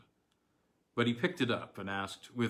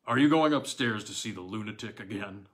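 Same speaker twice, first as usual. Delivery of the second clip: laughing; 7 dB louder than usual. A narrator's reading. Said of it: "laughed old Hawberk".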